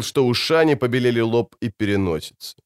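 ordinary delivery

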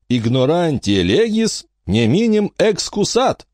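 slow, high-pitched Latin maxim; pronouncing solemnly. A narrator's reading. Teacher quoting Latin law, slow pronouncement. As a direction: declaim it slowly, word by word. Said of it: "изрёк учитель".

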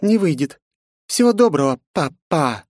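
high mocking goodbye in a French accent. A narrator's reading. Princess bids her father goodbye in a French accent. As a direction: wave him off in a French accent. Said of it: "с французским акцентом ответила княжна".

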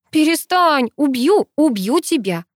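threatening. A narrator's reading. Girl threatens her teasing friend, exclaiming. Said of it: "пригрозила я".

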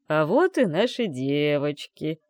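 slow drawled greeting. A narrator's reading. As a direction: stretch it out, a bit tipsy. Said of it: "протянул папа". (папа протяжно, слегка навеселе, встречает дочь)

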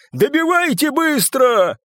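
high, stretched, urgent yell; yelled order. A narrator's reading. Папаша to the others to finish Славик, yelling. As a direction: yell the command over the fight. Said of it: "заорал папаша".

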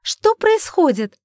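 high, loud, slow startled question; alarmed. A narrator's reading. Sister bursts in alarmed, high and loud. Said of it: "спросила Кори".

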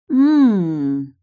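loud smug smiling hum; hum, satisfied you hit a nerve; smiling hum of triumph; pleased hum. Acted. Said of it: "улыбнулась Тильда".

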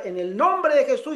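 a hint of a pastor invoking power; fervent preacher. Pastor touching people down the rows, mock fervour.

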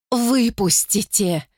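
slow, high sobbing plea; tormented woman sobbing. Acted. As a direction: sob it out in torment. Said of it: "всхлипывала она".

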